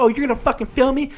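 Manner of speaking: high-pitched mock indignation; super ghetto woman. Passenger finding out she is being filmed, high mock indignation. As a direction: imitate an affronted passenger. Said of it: "She was, like, super ghetto".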